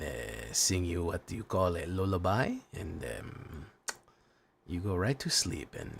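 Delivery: put-on low, soft, sleepy Latino accent; dad's Latino accent. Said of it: "because I talk like this sometimes".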